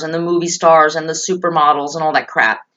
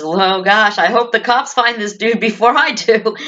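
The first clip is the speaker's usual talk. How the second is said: angry husband; 4 semitones higher than usual. Retold or imitated. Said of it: "He says".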